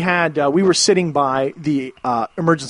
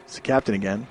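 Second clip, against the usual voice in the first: laid-back pilot; slower than usual. Retold or imitated. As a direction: drawl it like a sleepy captain. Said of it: "Most laid-back pilot in existence".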